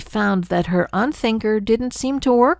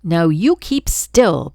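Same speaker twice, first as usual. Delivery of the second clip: snapped; 3 dB louder, slower than usual. Acted. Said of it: "the glunk snapped back".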